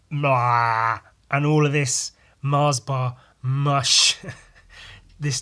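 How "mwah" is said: spitting sound. Retold or imitated. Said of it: "leant over and went".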